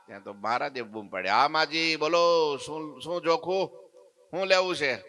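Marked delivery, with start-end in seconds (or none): 1.3-4.9 different voice. Acted. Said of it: "અવાજ કંઈક જુદો લાગે છે".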